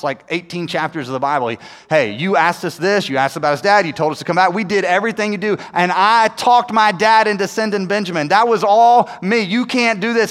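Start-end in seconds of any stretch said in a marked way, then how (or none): 1.9-10.3 passionate plea. Retold or imitated. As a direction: plead your case, gathering force as you go. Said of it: "passionate, he basically recounts".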